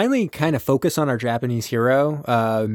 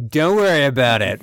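put-on cowboy accent; 3 semitones higher than usual. Captain dodges remarks on his voice, cowboy accent. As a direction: wave it away like a cowboy. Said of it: "you sound like a cowboy".

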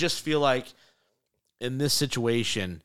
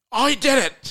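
mock surprise; 14 semitones higher, 6 dB louder than usual. Mocks last man standing count.

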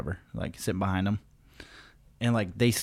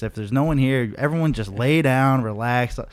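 higher and louder, goofing around; playful teasing; 4 semitones higher, 5 dB louder than usual. Retold or imitated. Man teasing the flight attendant about his seatbelt, playful and higher. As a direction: needle the attendant like a grinning kid.

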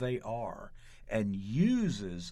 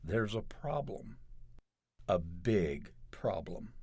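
solemn; 3 dB quieter than usual. Retold or imitated. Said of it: "he solemnly said".

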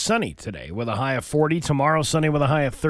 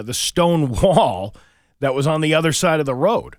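ordinary talk, nothing marked

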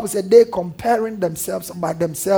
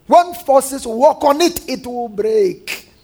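slow, drawn-out mock warning; 3 semitones higher, much slower than usual. Mockers taunt Nehemiah about his wall, slow retold mockery. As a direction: stretch out the taunt, letting it sink at the end. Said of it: "That was a mockery".

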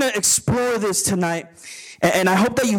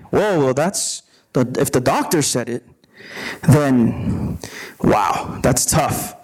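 low, breathy shocked murmur; stunned, deflated reaction; 8 semitones lower than usual. Retold or imitated. Voicing stunned patient.

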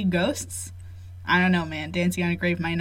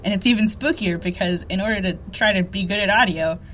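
muffled under a blanket; talking inside a blanket fort. Real, not acted. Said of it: "recording under a blanket in a little fort".

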